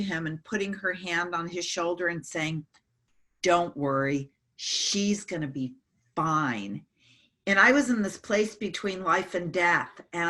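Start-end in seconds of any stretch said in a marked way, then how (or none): 3.4-6.8 slow, low, soothing nurse; gentle reassurance. Retold or imitated. Nurse comforting the tearful husband.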